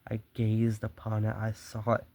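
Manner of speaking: dramatic, measured storyteller's read; story narration. A narrator's reading. Murderer confesses his careful nights to the listener, story narration. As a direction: read the tale with relish.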